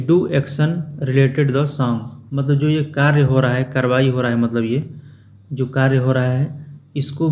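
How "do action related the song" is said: slow, word by word English read; slow reading aloud. Shown as a demonstration. Teacher reads textbook line to class, slow and deliberate. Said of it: "rereading textbook line slowly".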